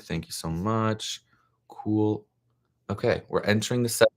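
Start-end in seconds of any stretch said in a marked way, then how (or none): 0.0-2.3 soft whispered thanks to herself. Real, not acted. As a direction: breathe it out under your breath, slow. Reading a screen prompt aside.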